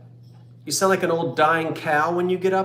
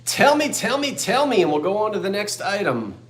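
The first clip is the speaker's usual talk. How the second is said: eager pleading; 5 semitones higher than usual. Real, not acted. Pleading to hear the winner.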